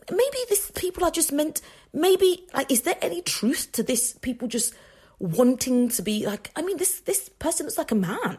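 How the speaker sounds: musing inwardly. Retold or imitated. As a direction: wonder aloud half to yourself. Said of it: "I said in my spirit".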